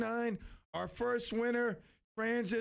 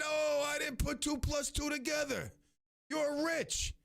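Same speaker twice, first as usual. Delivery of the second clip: surprise; 8 semitones higher than usual. Retold or imitated. Host retells surprised reply.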